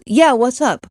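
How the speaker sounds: open, easy "Yeah, what's up?"; friendly reply. Retold or imitated. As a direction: answer like you're glad to be called. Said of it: "he can respond with".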